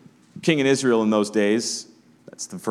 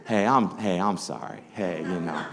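soft, slightly lowered sweet-talking apology; sweet making-up voice; 2 semitones lower, 4 dB quieter than usual. Shown as a demonstration. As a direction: gently coax a partner after a fight. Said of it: "that tone of voice that you put on".

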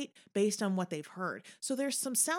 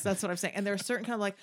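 ordinary talk

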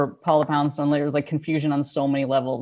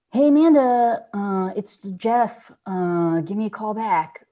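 mock sad guy; 4 semitones higher, slower than usual. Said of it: "sad sounding guy".

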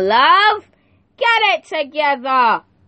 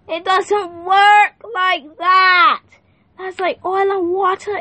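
preaching outburst; 7 semitones higher, slower than usual. Real, not acted. Preacher's emphatic outburst on anger.

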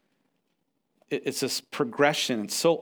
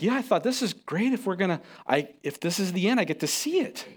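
cheerful daughter; 6 semitones higher than usual. Retold or imitated. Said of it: "It's like".

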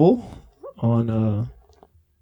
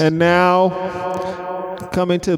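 stadium announcer; 3 semitones higher than usual. Pretend. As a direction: announce the batter to the crowd. Stadium announcer introducing player.

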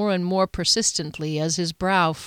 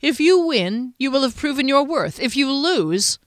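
menacing lord; 7 semitones higher, 4 dB louder than usual. Acted. Duke threatens knight.

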